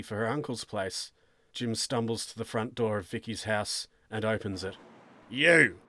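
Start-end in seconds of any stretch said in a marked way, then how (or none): 5.3-5.8 sharp, louder accusing exclamation; exclaimed. A narrator's reading. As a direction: exclaim it at the man in the doorway. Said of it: "Sergeant Elridge exclaims".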